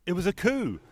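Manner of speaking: high-pitched acted boast; triumphant insistence. Lucy standing up to defend her win, triumphant.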